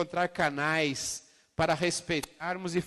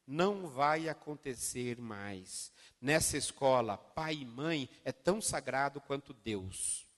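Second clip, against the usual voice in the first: slow solemn decree; 4 semitones lower, 5 dB quieter, slower than usual. Retold or imitated. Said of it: "entrou na sala e falou assim".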